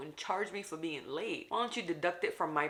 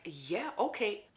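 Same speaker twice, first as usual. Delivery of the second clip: put-on girl's reply; 4 semitones higher, slower than usual. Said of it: "Girl was like".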